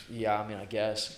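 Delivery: slow, noncommittal mock reply; half-hearted. Unmotivated worker answering the boss, imitated half-hearted drawl. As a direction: imitate a reluctant yes, dragging it out.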